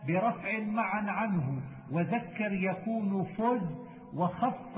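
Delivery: measured, metrical reading of didactic verse; verse recitation. Acted. Teacher reciting memorised verse on Quran readings, measured recitation. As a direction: recite the poem slowly, line by line.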